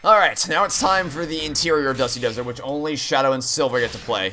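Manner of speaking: ordinary talk, nothing marked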